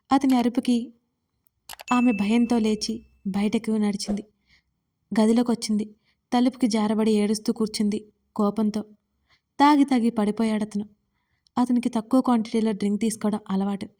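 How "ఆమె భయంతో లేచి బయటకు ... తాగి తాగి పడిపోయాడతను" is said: plain reading voice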